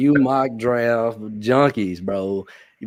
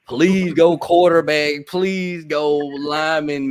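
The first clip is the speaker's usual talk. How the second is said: pleading; 4 semitones higher, 4 dB louder, much slower than usual. Retold or imitated. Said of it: "I was like".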